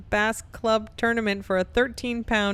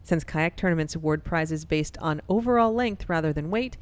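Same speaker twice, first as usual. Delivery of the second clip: radio voice; 2 semitones lower than usual. Shown as a demonstration. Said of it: "like, radio voice".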